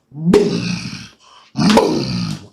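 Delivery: low, drawn-out booms; imitated thud. Storyteller imitates big man getting off bed, heavy booms. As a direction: boom it low, with a pause between. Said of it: "that shit was like".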